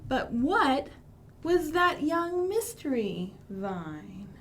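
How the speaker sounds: storybook read with hushed whispered bits; reading to children. Acted. Librarian reads the rhyming story to kids, lilting. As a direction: read it slowly like a picture book.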